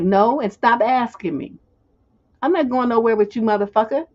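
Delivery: definitive no. Shown as a demonstration. Clearly telling a pest to stop asking, blunt. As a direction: shut him down with no room for ambiguity. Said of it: "That's a no. That's a real cl".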